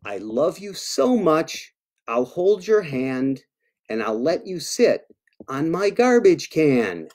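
storybook read-aloud; reading to children. Acted. Author reads a monster love poem to kids, storybook voice. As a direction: read it sweetly to little listeners.

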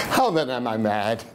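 nervous, laughing madman confessing; unhinged narrator. Acted. Madman telling listeners his story, nervous and laughing. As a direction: insist you are sane while cracking.

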